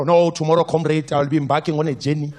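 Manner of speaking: lightly voiced bureaucratic friend; mock-formal chat, overblown; pompous politician. Politician friend answering weekend plans, lightly pompous. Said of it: "if you speak like this".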